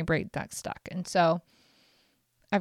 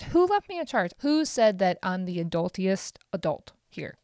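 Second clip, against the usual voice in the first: exasperated plea. Acted. Repeated exasperated question, escalating.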